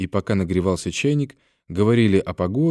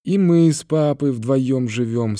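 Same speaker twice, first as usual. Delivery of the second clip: put-on slow, higher child's voice; child chiming in, pitched up; little girl; 5 semitones higher, slower than usual. A narrator's reading. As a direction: say it as a small girl, drawn out. Little girl speaks in story.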